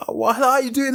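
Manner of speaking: high-pitched imitated hello; retold friendly greeting. Former employee greeting his old manager at an event, high imitated hello.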